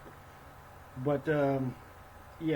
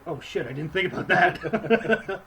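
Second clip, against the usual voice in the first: alarmed Bilbo; 5 semitones higher, 7 dB louder, slower than usual. Retold or imitated.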